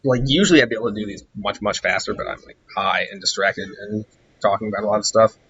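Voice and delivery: hoarse, tired, fading voice. Real, not acted. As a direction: talk through a hoarse throat. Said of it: "I'm fucking losing my voice".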